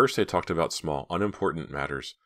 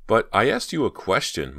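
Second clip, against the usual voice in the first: whiny; 6 semitones higher, 5 dB louder than usual. A narrator's reading. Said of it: "not meaning to sound so whiny".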